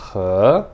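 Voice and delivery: he starting low and climbing; rising-tone he. Shown as a demonstration. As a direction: begin he at the bottom and slide up. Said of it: "você começa embaixo e você vai subindo".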